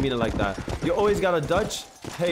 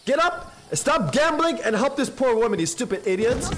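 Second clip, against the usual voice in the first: mock scolding; 5 semitones higher than usual. Scolding NPC gamblers for the woman.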